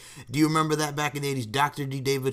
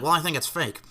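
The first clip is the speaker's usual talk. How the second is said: lightly imitated nasal voice, a bit higher; John Stossel; 4 semitones higher than usual. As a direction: mimic a little nasally reporter. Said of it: "got that little nasally voice".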